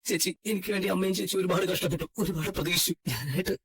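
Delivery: guilty, tearful confession; crying. Acted. Brother blaming himself to his sister, crying. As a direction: choke up with self-blame. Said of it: "കരയാതിരിക്ക്".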